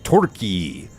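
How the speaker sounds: "Turkey" said as "Tor-kee", with an OR vowel; OR-sound pronunciation. Shown as a demonstration. Host trying the Turkish vowel, "Turkey" pronounced "Tor-kee". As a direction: round the first vowel of "Turkey" into "or". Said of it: "more like an or sound".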